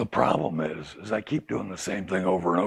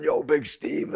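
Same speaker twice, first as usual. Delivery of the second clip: whispered call; 6 semitones higher, slower than usual. Retold or imitated. Inmates hailing him at the chow hall, in a whisper. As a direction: whisper the greeting like a call from across the yard.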